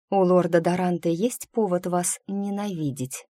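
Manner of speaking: a touch of caution, gently probing; cautious question. Acted. Pupil asking her teacher about Lord Darante, cautiously. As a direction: ask it carefully, mildly tentative. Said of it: "осторожно спросила я".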